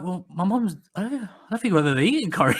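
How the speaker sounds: put-on retorting as a kid. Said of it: "well, I would be like".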